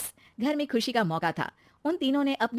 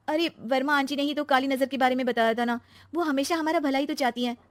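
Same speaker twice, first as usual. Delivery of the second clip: higher-pitched protest; defensive young wife; 5 semitones higher than usual. Acted. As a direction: argue back in the aunty's defence. Narrator voices Shweta. (बचाव करती बहू)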